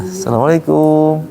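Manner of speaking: slow salam with KUM held level; long final KUM. Shown as a demonstration. Teacher shows the local habit, KUM drawn out. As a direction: stretch the KUM of Assalamualaikum. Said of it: "kadang kumnya panjang".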